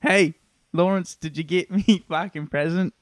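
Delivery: put-on cheeky mate, slipping into an Australian accent. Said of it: "Sorry, that was Australian".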